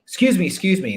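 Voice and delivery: put-on a scared kid tugging at you; child begging a shopper for help; lost child. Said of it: "and is like".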